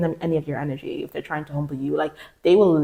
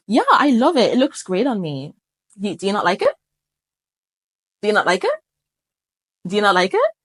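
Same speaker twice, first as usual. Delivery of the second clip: calm reply. Shown as a demonstration. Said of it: "I'd be like".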